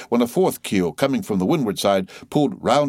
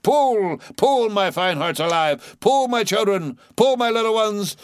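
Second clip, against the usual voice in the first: drawling, soothing; 12 semitones higher than usual. A narrator's reading. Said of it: "drawlingly and soothingly sighed Stubb".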